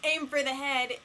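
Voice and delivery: mild mock yell; half-hearted shouted quote; retold yell. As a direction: raise the voice slightly to quote a yell. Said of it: "you're yelling at them".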